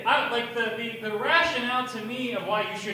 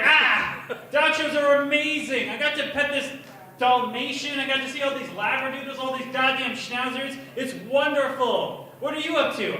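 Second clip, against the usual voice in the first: excited dad; 3 semitones higher, 3 dB louder than usual. Retold or imitated. Father calling his kid, gushing about a dog show. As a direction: gush like a dad who forgot his duties.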